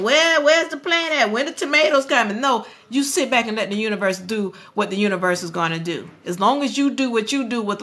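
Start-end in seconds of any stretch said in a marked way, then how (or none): 0.0-2.4 impatient gardener. Retold or imitated. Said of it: "you don't go out there digging".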